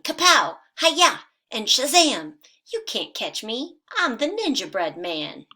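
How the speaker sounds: high, loud ninja taunt; shouting. Acted. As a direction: shout it like a cheeky karate kid.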